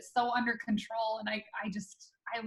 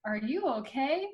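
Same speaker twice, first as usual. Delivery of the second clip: much higher, louder giggly laugh through the words; high-pitched laugh; 8 semitones higher, 4 dB louder than usual. Retold or imitated. Wife laughing nervously at her husband's fall, high giggly voice. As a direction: imitate the wife's high tittering laugh. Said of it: "she's got that high pitch".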